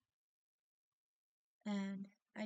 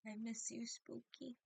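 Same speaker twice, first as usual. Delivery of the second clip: tearful; 3 semitones higher, 5 dB quieter than usual. Real, not acted. Grieving owner addresses her dead cat.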